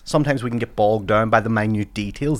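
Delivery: polished inspirational keynote delivery, lightly done; keynote speaker voice. Shown as a demonstration. Comedian mocking a keynote speech to friends, lightly inspirational. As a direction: address the room like a paid motivational speaker. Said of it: "there's a sample for you".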